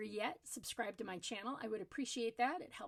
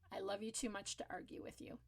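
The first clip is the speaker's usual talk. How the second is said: soft and calm, quiet at the end; the calm in the storm; 2 semitones lower, 7 dB quieter than usual. Shown as a demonstration. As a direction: say it gently, no fight in it. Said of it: "you gotta say it in a calm voice".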